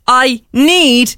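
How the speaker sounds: NEED stressed, drawn out as if written in capitals; emphatic capitals. Retold or imitated. Radio host reading out her old message to the guest, emphatic. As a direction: lean hard on the word NEED. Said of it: "in capitals".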